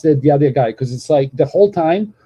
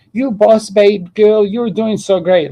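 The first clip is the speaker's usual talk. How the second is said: mock hype girl; 5 semitones higher, slower than usual. Mocking hype-girl cheer.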